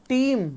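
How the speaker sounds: टीम as one syllable with long EE; silent ending. Shown as a demonstration. Teacher giving the example, टीम as one long syllable. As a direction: stretch टीम and close on M. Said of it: "तो टीम नहीं पढ़ेंगे".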